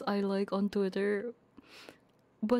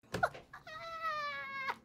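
tearful laugh-cry; 7 dB quieter than usual. Real, not acted. Crying on stream.

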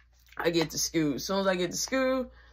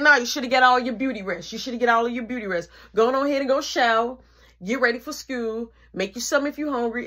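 imitating bossy mom; 5 semitones higher than usual. Mom bossing in morning.

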